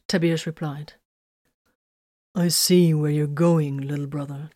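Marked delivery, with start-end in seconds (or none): 2.4-4.5 slow, calm and resonant; steady, unhurried big-brother calm. Acted. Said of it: "with his calm, resonant voice".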